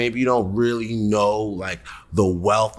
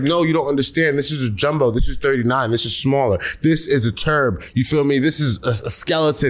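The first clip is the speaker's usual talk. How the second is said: mock exasperation; 5 semitones higher than usual. Acts out lecturing his mom.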